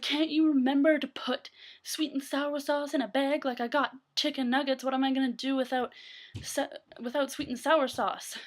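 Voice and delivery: mild mock yell of outrage; imitated angry screaming. Customer missing his sweet and sour sauce, mock angry rant. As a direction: scold like an irate customer, half-hearted yell. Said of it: "he's screaming at her".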